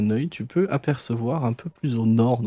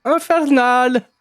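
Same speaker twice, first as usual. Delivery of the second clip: dramatic shout; 13 semitones higher, 9 dB louder, much slower than usual. Pretend. Players joke, calling out dramatically.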